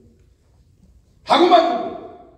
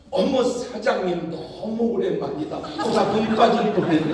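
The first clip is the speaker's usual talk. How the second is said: flattering bar hostess. Retold or imitated. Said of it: "이렇게 말합니다".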